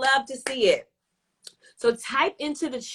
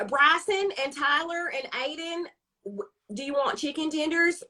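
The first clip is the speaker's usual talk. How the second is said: higher, chirpy suburban mom; soccer mom voice; 5 semitones higher than usual. Retold or imitated. Lightly voiced soccer mom offering her kids chicken tenders. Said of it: "soccer, white mom".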